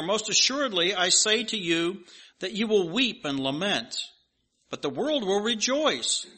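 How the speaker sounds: solemn reading of Christ's words; scripture reading. Acted. Pastor reading Christ's words to the congregation, solemn. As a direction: read it out steady and earnest.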